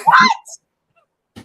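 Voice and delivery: very high, loud outburst; shouted disbelief. Real, not acted. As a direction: shriek the question. Co-host bursts out at remark.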